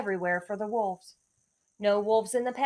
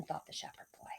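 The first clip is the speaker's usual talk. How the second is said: softer whispered aside; 4 semitones lower, 17 dB quieter than usual. A narrator's reading. Narrator whispering the tag to the children. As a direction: breathe it out secretly.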